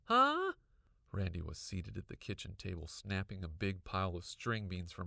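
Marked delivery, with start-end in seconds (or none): 0.1-0.6 startled huh. A narrator's reading. Brother startled by the shout.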